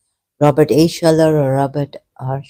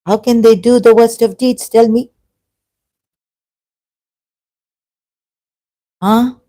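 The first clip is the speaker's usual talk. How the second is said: higher and louder, demanding an answer; indignant challenge; 7 semitones higher, 5 dB louder than usual. Real, not acted. Challenging listeners on the infallible imams, indignant and loud. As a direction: fire the question at them.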